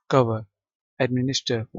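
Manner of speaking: "कवर, एडमिनिस्टर" with the final R left silent. Shown as a demonstration. Teacher reading English synonyms to class, "कवर, एडमिनिस्टर" with silent final R. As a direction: end "कवर" and "एडमिनिस्टर" on a vowel, British style. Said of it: "British accent में आर silent है".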